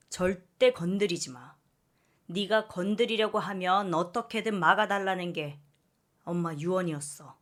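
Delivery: aunt laying down the law; firm older sister scolding; stern rebuke. Acted. Aunt rebukes mother firmly.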